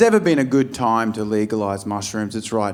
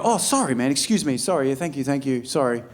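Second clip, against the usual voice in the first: meek apology; 4 dB quieter than usual. Retold or imitated. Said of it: "You go".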